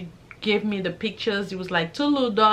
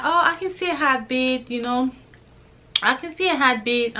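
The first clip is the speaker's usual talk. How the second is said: excited; 3 semitones higher than usual. Retold or imitated. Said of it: "she was excited".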